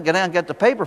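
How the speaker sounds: lightly voiced parental pleading; mild pleading. Parents urging their son to fetch the paper, mildly pleading. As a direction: coax a reluctant child, with mild insistence. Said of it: "twenty minutes of their pleading with him".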